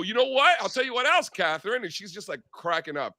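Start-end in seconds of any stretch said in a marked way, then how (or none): 0.0-1.8 higher, playful teasing build-up; excited tease. Retold or imitated. Teasing Catherine during commercials, higher playful tease. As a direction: lean in like you're about to drop a secret. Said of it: "And I go".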